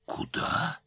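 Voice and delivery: high-pitched amazed question; taken aback, voice shooting up; astonished. A narrator's reading. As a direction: pitch leaps up in disbelief. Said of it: "изумился художник".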